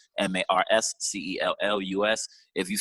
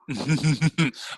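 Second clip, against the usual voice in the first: mock giggle; 5 semitones higher than usual. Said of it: "when she giggled".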